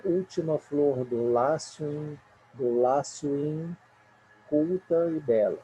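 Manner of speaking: slow, vowels run together; scanning verse. Shown as a demonstration. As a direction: scan it, linking the vowels. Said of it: "a escansão".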